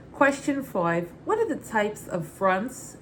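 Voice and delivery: put-on light New York Brooklyn accent. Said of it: "read the question in my Muddets Berry Brooklyn accent".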